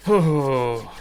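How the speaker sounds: loud blown-out "oh"; bracing exhale. Acted. Leader after downing his tea like a shot, bracing exhale. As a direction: puff out hard to steel yourself.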